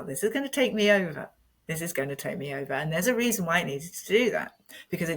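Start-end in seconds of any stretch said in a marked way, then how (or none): 0.0-1.3 quick, higher, alarmed realisation; rising alarm. Retold or imitated. Feeling emotion rise, retold thought. 1.7-2.7 fast, much softer, sinking repeat; quiet dread. Retold or imitated. Same thought repeated, fading.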